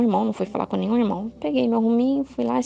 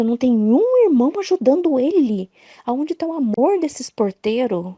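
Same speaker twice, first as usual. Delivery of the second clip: put-on raised, indignant voice of a teenage girl; indignant complaint; 3 semitones higher than usual. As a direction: scold the absent doorkeepers. Indignant teen retold. (reclamação indignada, voz erguida)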